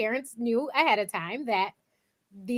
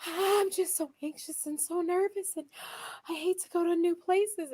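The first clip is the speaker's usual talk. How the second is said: high, whiny put-on wail of an anxious mom; mock tearful mother; 7 semitones higher, 3 dB quieter than usual. Retelling a TV mom's tearful complaint, mock wail. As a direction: act out a sobbing mother, lightly hammed up. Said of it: "the mother starts bawling".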